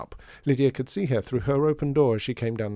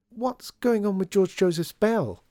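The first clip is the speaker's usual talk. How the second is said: put-on high, slow girlish query; change the subject in a raised voice; deflecting question; 10 semitones higher, 4 dB louder, slower than usual. A narrator's reading. Lydia steering the grumpy caretaker off the subject, deflecting question.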